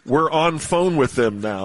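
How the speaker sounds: slow, drawn-out mock casual voice; fake casual sing-song. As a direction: stretch the words out, lazily sing-songy. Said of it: "elongating a few words here and there".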